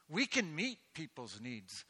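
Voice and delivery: rising exhortation; rousing appeal. Real, not acted. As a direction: lift them up with it. Preacher rousing the congregation.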